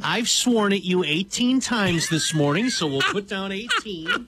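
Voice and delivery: mock-deliberate, drawing out the words; mock number picking. Co-host parodies the number picking.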